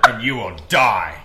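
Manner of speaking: loud mock-solemn judge; comic doom-laden verdict; Discord moderator voice. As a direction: pass sentence in a goofy accent. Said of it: "sentencing John Wayne Gacy in The Voice".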